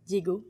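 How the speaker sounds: "Diego" said the French way; "Diego" as dyeh-GO, pure French o; French pronunciation. Shown as a demonstration. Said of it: "how you would say it in French".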